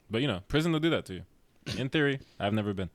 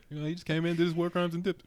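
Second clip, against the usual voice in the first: amused; 8 semitones higher, faster than usual. Real, not acted. Repeats line laughing, higher.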